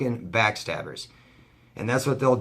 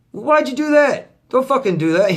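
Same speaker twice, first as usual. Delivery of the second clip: outraged mock reply; 13 semitones higher, 7 dB louder than usual. Vlogger replaying his shocked answer to the cheating friend, loud. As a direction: yell at him in disbelief, pitched way up.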